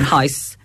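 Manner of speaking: "house" pronounced close to "hice"; funny Fermanagh vowel. Shown as a demonstration. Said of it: "we say house a wee bit funny".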